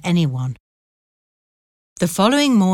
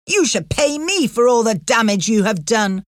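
scornful mistress; 5 semitones higher than usual. A narrator's reading. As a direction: spit it out with contempt. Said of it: "said Missus Pancroft".

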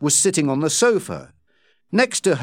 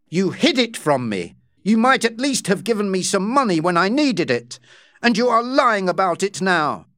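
angry shout; 5 semitones higher than usual. Acted. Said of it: "Rawdon shouted".

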